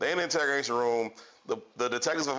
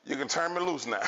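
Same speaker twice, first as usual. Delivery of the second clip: perfect granny voice. Retold or imitated. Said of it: "She said in the perfect granny voice".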